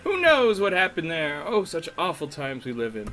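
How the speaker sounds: hammed-up Southern-or-Cockney gossip; uncertain Southern-Cockney accent. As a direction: tell it indignantly in a wobbly Southern-Cockney accent. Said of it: "I don't know if she's Southern or British".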